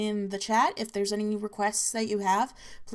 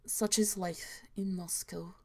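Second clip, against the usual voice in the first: whisper; 2 semitones lower, 9 dB quieter than usual. Acted. Closing line of the tale.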